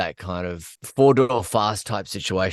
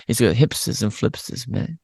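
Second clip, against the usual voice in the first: Impression of a singer; 2 semitones higher than usual. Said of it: "there's a guy called Dave Graney".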